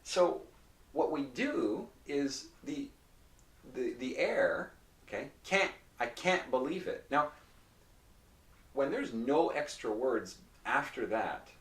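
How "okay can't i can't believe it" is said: "can't" with a nasal vowel and glottal stop; no tongue touch in "can't", just stop the air. Shown as a demonstration. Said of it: "the tip of the tongue does not actually touch".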